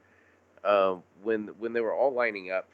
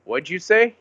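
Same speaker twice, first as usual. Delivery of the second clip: high, loud incredulous question; pitched up in disbelief, half laughing; mock incredulous; 9 semitones higher, 9 dB louder than usual. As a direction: act out a startled double-take. Acted exchange from battle scene.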